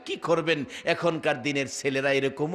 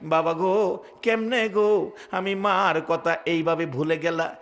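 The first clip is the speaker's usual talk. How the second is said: mild chanted grief; tearful mother's call. Acted. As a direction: plead wearily as a wronged mother calling her son. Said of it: "কান্দে আর ডাকে".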